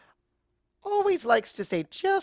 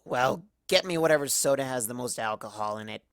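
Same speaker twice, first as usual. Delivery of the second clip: put-on drunk Twilight; 5 semitones lower than usual. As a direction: slur through it, hurt and pretending not to care.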